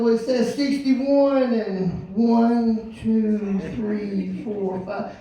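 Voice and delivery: slow, fading count of marks; slow kid counting. Retold or imitated. Teen helper reading tape measure aloud, slow fading count.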